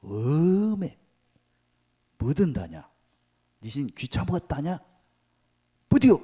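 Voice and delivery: rising into a Jeolla dialect yell, high and loud; Jeolla dialect Elijah. Acted. Elijah imagined as a Jeolla man, mocking Baal's prophets in dialect. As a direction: taunt in thick Jeolla dialect, building to a shout. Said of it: "전라도 버전으로 얘기한다".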